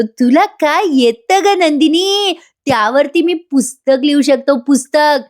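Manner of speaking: उंच, लांबवलेल्या स्वरात चिडवणं; बायकोला चिडवत शब्द ताण; खोचक टोमणा. Acted. जीवा नंदिनीला टोमणा मारतो. (चढ्या आवाजात खोचक टोमणा)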